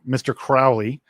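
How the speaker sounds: ordinary talk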